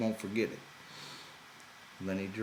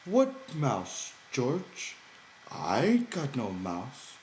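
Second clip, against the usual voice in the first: much higher, wide-eyed mock innocent Lenny; feigned innocence; 7 semitones higher, 4 dB louder, much slower than usual. A narrator's reading. Lenny hiding the mouse from George, high fake innocence. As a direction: play dumb, all innocence. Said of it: "pantomime of innocence".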